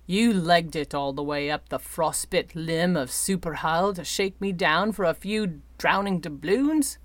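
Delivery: lightly voiced gruff sky captain, disbelieving; incredulous growl. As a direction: scoff at the debt collector's errand. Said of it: "he growled".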